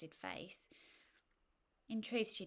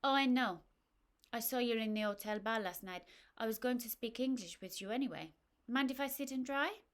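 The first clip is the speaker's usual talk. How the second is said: cheery French woman; 4 semitones higher, 7 dB louder than usual. Acted. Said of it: "the stranger said".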